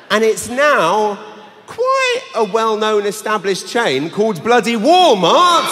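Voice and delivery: exasperated shout. Real, not acted. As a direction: drag it out then explode. Exasperated punchline.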